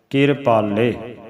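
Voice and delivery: ਕਿਰਪਾਲੇ said slowly, r tucked after k; slow careful ਕਿਰਪਾਲੇ, syllable by syllable; model pronunciation. Shown as a demonstration. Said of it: "ਇਹਨੂੰ ਕਿਰਪਾਲੇ ਬੋਲਣਾ ਹੈ".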